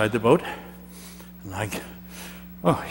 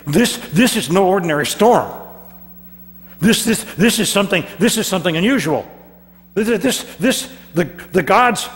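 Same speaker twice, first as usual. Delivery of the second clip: panicky sailors; 7 semitones higher than usual. Acted.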